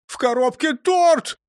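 high-pitched, wailing complaint; loud cry easing into plaintive grumbling; lamenting. A narrator's reading. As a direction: bemoan it with comic woe. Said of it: "запричитал он".

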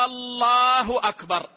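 الله with the opening hamza stretched long, sounding like a question; drawn-out Allah. Shown as a demonstration. Muezzin's wrong call, drawn-out الله. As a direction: stretch the first vowel of الله as the muezzin's error. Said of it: "مد همزة لفظ الجلالة".

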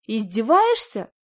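shouted. A narrator's reading. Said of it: "выкрикнула я".

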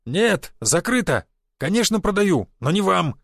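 indignant shouting. A narrator's reading. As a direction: throw him out with a shout. Owner throwing out customer.

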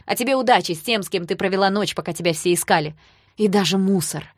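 loud, cold parting shot; icy voice. Acted. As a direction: freeze her out with contempt. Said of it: "сказал Даня ледяным голосом".

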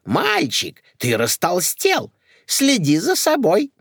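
put-on high fussy old lady voice. Old aunt fusses over the young man, high and fussy. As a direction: fuss over the boy.

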